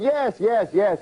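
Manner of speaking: lightly acted breakthrough; excited recognition. Old uncle hears the word he wanted, mildly excited.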